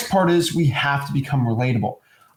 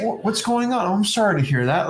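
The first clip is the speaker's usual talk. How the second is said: gently concerned, as to a grandmother; sympathetic concern; 5 semitones higher than usual. Shown as a demonstration. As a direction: react with simple, sincere sympathy. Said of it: "You're gonna say".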